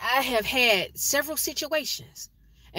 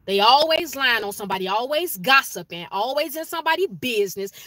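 rising scolding; 4 semitones higher, 5 dB louder than usual. Real, not acted. Scolding parents of unruly kids.

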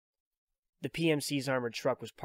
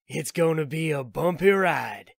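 higher and louder, a grinning arms dealer's shout; gleeful Drebin; 5 semitones higher, 9 dB louder than usual. Acted. Drebin warns Snake before flooring it, loud and gleeful. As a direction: call it out with glee over the engine. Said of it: "Drebin said".

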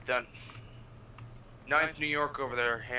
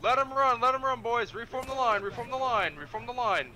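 shouting orders over battle; 9 semitones higher than usual. Acted. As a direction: call the troops back in. Officer after charge.

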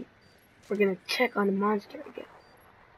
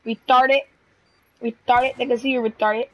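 exasperated yell; 6 dB louder than usual. Real, not acted. Yelling at teammate spotted.

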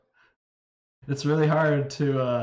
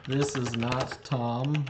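This is not Tom, word by word; slow careful English; slower than usual. Shown as a demonstration. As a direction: translate it out slowly. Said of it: "slow careful translation".

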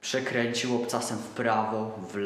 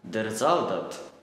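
mocking recognition; 4 dB louder, much slower than usual. German looks at the toy.

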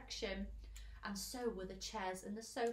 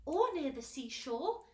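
loud, higher, eager suggestion after a gasp; 5 semitones higher, 6 dB louder than usual. A narrator's reading. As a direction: jump in with a hopeful idea. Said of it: "said James eagerly".

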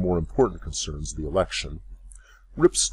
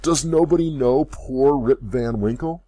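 higher and louder plea, "nobody" hit hard; crying out; 7 semitones higher, 7 dB louder than usual. A narrator's reading. Old man pleading with staring villagers, crying out. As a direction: appeal desperately to the crowd. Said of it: "cried he".

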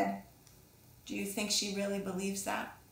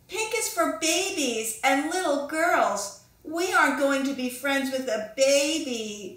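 mocking sing-song tease, a bit louder; taunting; 4 semitones higher, 7 dB louder than usual. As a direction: jeer at her like a playground bully. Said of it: "taunted Tiffany".

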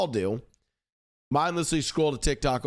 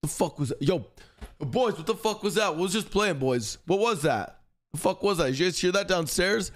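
put-on higher, alarmed, half-shouted questions to the boys; high freaking out; 5 semitones higher than usual. Stoned friend asking the boys about the noise, higher and alarmed. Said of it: "Buddha freaks out".

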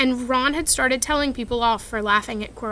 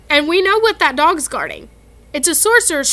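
impressive; 4 semitones higher, 7 dB louder than usual. Acted. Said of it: "said Ron impressively".

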